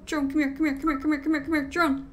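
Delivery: high, loud terrified shrieks; panicked begging the drone to help; screaming for help. Real, not acted.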